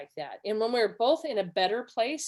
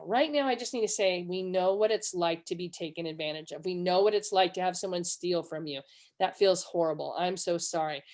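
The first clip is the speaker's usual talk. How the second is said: lower, gently sympathetic reassurance; empathizing; 3 semitones lower than usual. Retold or imitated. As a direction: console a daughter who has been cheated. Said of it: "after we empathized".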